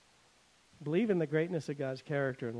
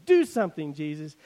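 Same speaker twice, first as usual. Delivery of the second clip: mock crowd shout at Jesus; 6 dB louder than usual. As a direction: crowd yelling for him to act. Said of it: "Voices are shouting at him".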